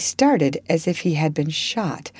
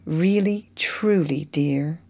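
gentle sad confirmation; slower than usual. Acted. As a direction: let the answer sink gently. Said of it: "with a look that she did not soon forget".

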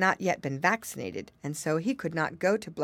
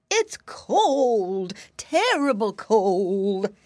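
lightly voiced shivering piglet; a hint of a chilly piggy boy; little pig voice; 3 semitones higher, 6 dB louder, much slower than usual. A narrator's reading. Curly shivering in the cold.

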